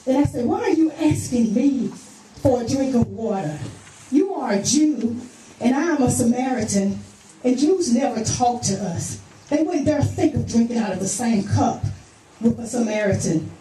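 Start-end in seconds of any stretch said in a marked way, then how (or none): 0.5-9.2 challenging, pitch jumping up at first; with attitude. Acted. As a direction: question him with some attitude. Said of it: "I know I had an attitude".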